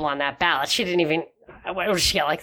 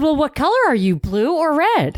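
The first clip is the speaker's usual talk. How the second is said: mock caller; 7 semitones higher than usual. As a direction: squeak it like a pushy canvasser. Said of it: "She said".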